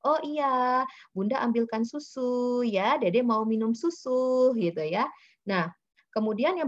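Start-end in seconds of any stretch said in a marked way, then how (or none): 0.1-4.5 put-on proper words to child. Shown as a demonstration. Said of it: "mengucapkan dengan bahasa yang benar".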